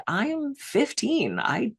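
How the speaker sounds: put-on bewildered teen attitude; deadpan teen. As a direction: drag out "I am fifteen" like it's obvious. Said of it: "I just looked at him".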